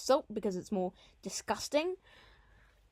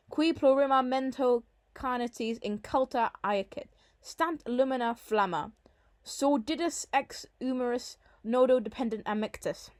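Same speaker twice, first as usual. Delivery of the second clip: measured reading of Latin poetry; Latin verse recitation; 2 semitones higher than usual. Shown as a demonstration. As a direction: recite the Latin line for a class. Reads the Latin verse aloud.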